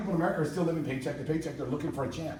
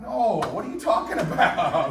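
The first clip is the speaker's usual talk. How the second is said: incredulous laughing retort; 3 semitones higher, 6 dB louder, slower than usual. Retold or imitated. Retelling reply to ignorant family.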